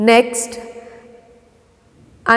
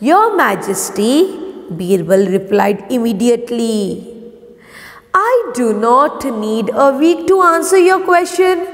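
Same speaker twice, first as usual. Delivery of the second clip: measured classroom read-aloud, dialogue lifted in pitch; story narration. A narrator's reading. Teacher reading Birbal's answer to pupils, story narration. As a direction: read the tale clearly, lightly raising the characters' lines.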